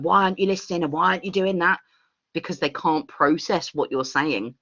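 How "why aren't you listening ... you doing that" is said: half-raised, higher scolding voice; mock scolding shout. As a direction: imitate an exasperated telling-off without really shouting. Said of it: "you're shouting at them and going".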